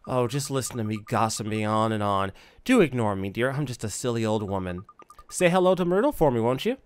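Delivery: lightly voiced chattering old woman; self-deprecating old neighbour. Silly old woman saying goodbye to the boy, lightly flustered. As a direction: brush off your own gossiping.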